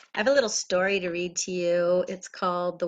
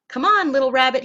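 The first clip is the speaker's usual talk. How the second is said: wise groundhog; 3 semitones higher, 10 dB louder than usual. Acted. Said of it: "he said".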